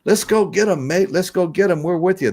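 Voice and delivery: imitating eager Australians; hammed-up Australian cheer; Australian accent. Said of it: "You know, they say".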